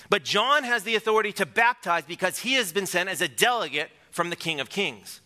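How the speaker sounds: gentle mock impression of the senior pastor; Pastor Chris impersonation. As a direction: lightly mimic a colleague's preaching cadence. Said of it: "my best Pastor Chris impersonation".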